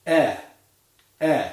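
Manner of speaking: relaxed short E as in yellow; short lax "E" with no tension; lax vowel E. Shown as a demonstration. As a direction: say "E" loose, jaw relaxed. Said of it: "let's say it together".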